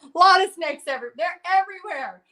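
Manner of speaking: laughing with disbelief at the snakes. Real, not acted. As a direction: laugh through the words about the snakes.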